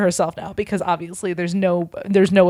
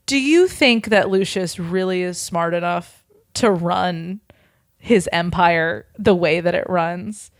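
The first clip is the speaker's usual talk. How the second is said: slow villain; slower than usual. Acted. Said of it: "he laughs and he's like".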